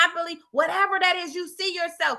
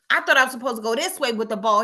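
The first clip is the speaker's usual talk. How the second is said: quick eager; 3 semitones lower, 6 dB louder, faster than usual. Retold or imitated. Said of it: "He said".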